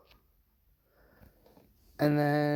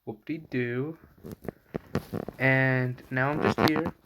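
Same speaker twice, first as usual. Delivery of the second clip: talking through a bleeding mouth; bloody mouth. Real, not acted. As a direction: speak like teeth were just pulled. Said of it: "My mouth is bleeding".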